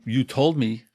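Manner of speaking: wife scolding her late husband, mounting anger; upset wife. Acted. Wife complaining, acted quarrel.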